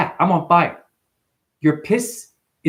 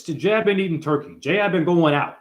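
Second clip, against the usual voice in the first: dumb voice. Pretend. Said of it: "use your dumb voice".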